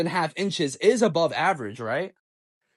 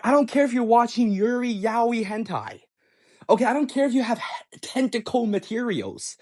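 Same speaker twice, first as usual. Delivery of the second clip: higher, insistent, piling up each point; worked-up retold demand, raised pitch; exasperated rant; 5 semitones higher than usual. Boyfriend presses girlfriend for her phone, exasperated.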